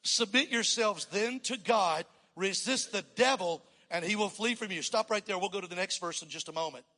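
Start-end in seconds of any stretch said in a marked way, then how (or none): 0.0-4.8 reading scripture aloud. Real, not acted. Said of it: "let's read it together".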